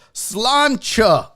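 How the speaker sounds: "Sláinte" said as SLAHN-chuh; Irish toast pronunciation. Shown as a demonstration. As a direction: say "Sláinte" with a "ch" in the second syllable. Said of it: "How do you say that?".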